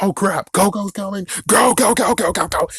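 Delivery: mock-panic urging everyone to hurry; panicked studio. Mocking studio rushing its movie before Coco, panicked high. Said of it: "they're like".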